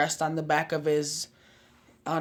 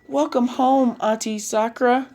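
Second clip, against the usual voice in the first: high, eager welcome; lifted, chirpy greeting; excited greeting; 8 semitones higher, 5 dB louder than usual. A narrator's reading. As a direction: call it out like excited little cousins. Cousins greet their aunt.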